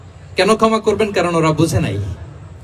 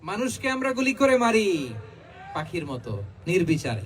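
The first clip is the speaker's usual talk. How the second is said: hushed lament; 10 dB quieter than usual. Real, not acted. Preacher laments to congregation that people are shot, soft lament.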